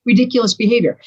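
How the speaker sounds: mock-scold yourself in disbelief; acted exasperation at your own behavior; exasperated self-scolding. Talking down to herself, exasperated.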